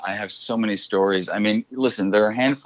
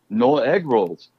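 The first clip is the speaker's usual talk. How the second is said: Asian accent, a touch more irritated; 5 semitones higher, slower than usual. Shown as a demonstration. Delivery guy repeats his line to customer, a bit more irritated. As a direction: snap it a bit more annoyed. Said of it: "a little bit more irritated".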